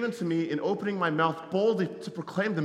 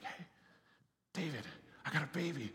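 laughing; 2 semitones lower, 11 dB quieter than usual. Retold or imitated. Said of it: "couldn't help myself to be like".

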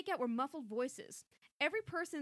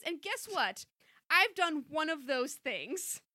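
loud indignant speech; 3 semitones higher than usual. Acted. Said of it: "Chrissy said loudly".

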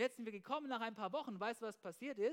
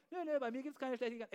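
mock denial; 3 semitones higher, faster than usual. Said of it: "Da hilft's auch nicht zu leugnen".

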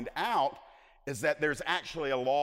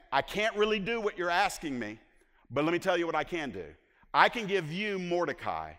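higher-pitched hinting tone, retold; wink-wink nudge-nudge; 4 semitones higher, 4 dB louder than usual. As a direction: voice the king dropping a hint. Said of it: "almost a wink, wink, nudge, nudge".

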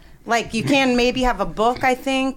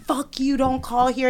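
higher, snapping at a caller; angry dad; 5 semitones higher than usual. Retold or imitated. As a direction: bark at the telemarketer. Dad yelling at telemarketer.

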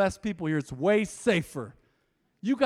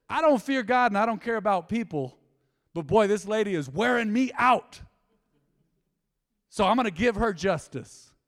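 voicing the judge; 4 dB louder than usual. Preacher voices judge in parable.

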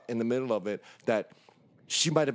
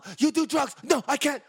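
mock prissy girl; 11 semitones higher than usual. Teller mimics the girl refusing him, high and prim. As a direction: play her high and shocked. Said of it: "She said".

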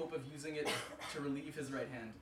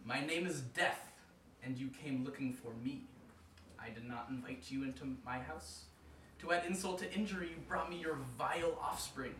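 deep raspy voice. Acted. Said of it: "spoke in a deep, raspy voice".

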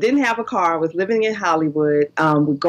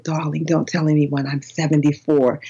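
lightly imitated English lady confiding; a touch of English accent, dropping lower; 3 semitones lower than usual. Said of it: "she had an English accent".

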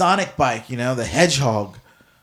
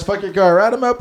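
shouted sign-off; 4 semitones higher, 4 dB louder than usual. Acted. Sign-off catchphrase.

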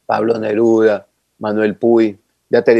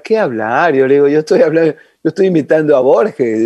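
mock-indignant retort, slightly raised; joking protest; 3 semitones higher than usual. Young reporter to Horacio, accused of imitating Menotti, joking protest. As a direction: protest in jest, a little higher. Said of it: "pero de broma".

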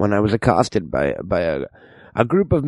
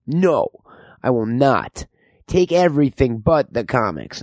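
high defiant plea; 4 semitones higher than usual. Retold or imitated. Himself refusing, high voice.

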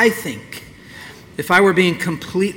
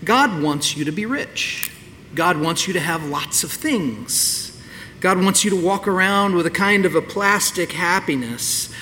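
mocking prosperity preacher; 3 semitones higher than usual. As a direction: lightly send up the slick promise. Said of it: "name it and claim it sort of business that says".

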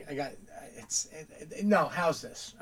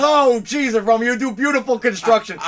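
mock flattery; 7 semitones higher, 10 dB louder than usual. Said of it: "And he goes".

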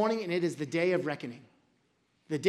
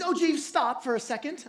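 slightly raised, lightly British king; mock British accent; 5 semitones higher than usual. King stopping Jeeves as he reads, mock British. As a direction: interrupt the servant in a put-on British accent. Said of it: "I don't know why he was British".

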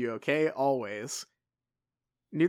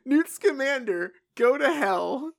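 louder and much higher outburst; hostile shout; 11 semitones higher, 6 dB louder, slower than usual. Shown as a demonstration. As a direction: fling the curse out loud. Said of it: "Oh, hit me with that one".

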